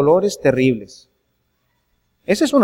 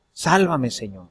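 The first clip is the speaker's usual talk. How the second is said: hushed prayer; 7 semitones lower, 5 dB quieter than usual. Pretend. Preacher voices a quiet prayer.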